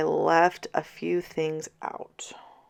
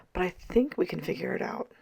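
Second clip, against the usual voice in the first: voice giving out; 2 semitones higher, 4 dB quieter, faster than usual. Real, not acted. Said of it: "My voice just keeps going out".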